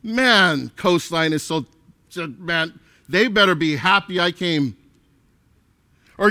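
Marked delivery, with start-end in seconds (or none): 0.0-4.8 mock smug attendee. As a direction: lightly play the proud member who thinks the church owes him. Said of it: "had that attitude".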